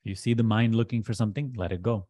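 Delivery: measured instructions with long pauses between phrases; deliberate meditation teacher, key phrases pressed; guided meditation. Acted. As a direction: guide them firmly into letting go, leaving long silences.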